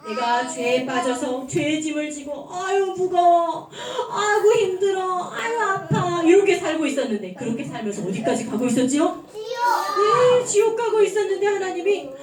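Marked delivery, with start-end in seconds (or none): 2.5-6.2 mock groaning under burden.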